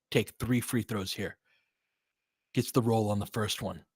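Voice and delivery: running game call, steady and informative; play-by-play. Acted. Fan calling the game for listeners, play-by-play. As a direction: call the action like a broadcaster.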